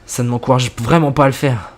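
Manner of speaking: narration posée, plus grave dans les apartés du narrateur; lecture de récit. A narrator's reading. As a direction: lire l'histoire en jouant sobrement les dialogues. Lit une histoire à voix haute. (narration de fiction à voix haute)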